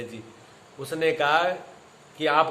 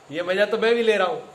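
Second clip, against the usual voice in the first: raised, louder amused voice; amused sage; 3 semitones higher, 3 dB louder than usual. Retold or imitated. Sage laughing at his insulters, a touch raised and amused. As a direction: explain it with a laugh building. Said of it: "तभी तो मैं हंस रहा हूं".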